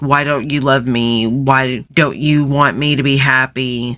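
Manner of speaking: put-on pleading, guilt-tripping tone. Describing how the begging turned into pleas, imitating Amber guilt-tripping. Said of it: "a guilt trip".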